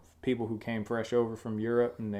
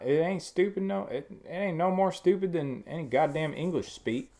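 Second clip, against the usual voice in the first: higher, insistent Southern twang; spirited Southern accent; put-on Southern accent; 5 semitones higher than usual. Shown as a demonstration. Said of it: "people associate this accent with".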